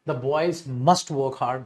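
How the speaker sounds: very slow, word by word, the corrected sentence; slow model answer. Shown as a demonstration. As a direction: spell out the right answer slowly. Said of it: "मैं यहां must को priority दूंगा". (सही वाक्य धीरे-धीरे)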